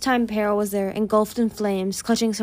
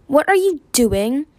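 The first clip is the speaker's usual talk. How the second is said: loud, slow, higher challenge; bark; 5 semitones higher, 5 dB louder than usual. A narrator's reading. Winter to Moon who grabbed him, barking. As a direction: bark the question at her. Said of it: "he barked".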